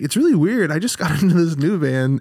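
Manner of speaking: high, eager retelling; imitated younger self. Eighth grader telling older boys about new band, naive. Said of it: "And I was like".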